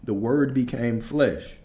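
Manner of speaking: "The word became flesh" slowed down to land fully; slow, weighty stress on "The word became flesh"; emphatic. Real, not acted. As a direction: say "The word became flesh" slowly, letting each word hit. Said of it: "Make sure that it hit fully".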